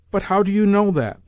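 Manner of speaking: high, loud indignant retort; sharp retort. A narrator's reading. Old lady retorting at the landlord, sharply. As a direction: snap back at him, indignant. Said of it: "the old lady retorted".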